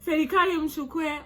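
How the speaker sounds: high, fast, laughing mock mother's plea; mother pleading. Mother begging the government to take him, high mock plea. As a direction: imitate a frantic mother, breaking into laughs. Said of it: "his mom says".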